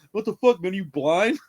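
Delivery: loud, high mock yell at her; hammed-up rude stranger snapping; angry yell. Rude stranger yelling at the injured girl, mock angry.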